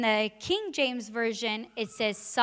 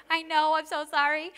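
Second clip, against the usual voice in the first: sorry mom; 4 semitones higher than usual. Retold or imitated. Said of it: "I was like".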